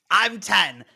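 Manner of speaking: loud, high, hammed-up cartoon villain; over-the-top shrieky villain impression; Joker. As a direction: belt it out like a manic supervillain, stretching the end. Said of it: "cringily do a Joker impression".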